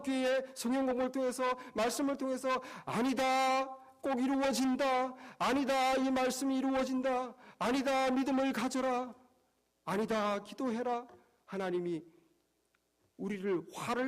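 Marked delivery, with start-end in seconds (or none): 2.8-11.1 God's voice. Acted. God voiced encouraging, preacher raised.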